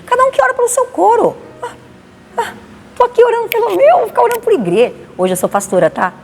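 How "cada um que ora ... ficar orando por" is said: mocking high voice. Mocking her old selfish thoughts.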